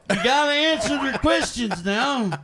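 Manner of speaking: Grandpa Grumpy. Acted. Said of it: "This here's Grandpa Grumpy".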